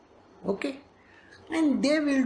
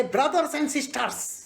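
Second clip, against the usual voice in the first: politician's address; 4 semitones higher than usual. Retold or imitated. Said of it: "politicians who will say".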